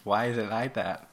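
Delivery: put-on unconvincing copy of a Southern American accent; attempted Southern accent. Friend copying Southern dialect, badly faked Southern accent. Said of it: "that sounds nothing like how you just said it".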